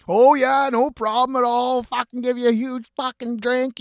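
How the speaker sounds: put-on high, loud and gushing kid; eager kid voice. Kids eagerly promising the narrator a drink, high mock gush. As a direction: mimic the kids happily agreeing, hammed-up.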